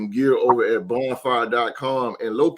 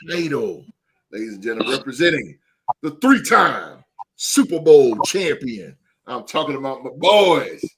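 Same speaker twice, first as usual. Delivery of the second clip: hype announcer. Acted. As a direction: introduce a title holder like a ring announcer. Host announces co-host like a champion.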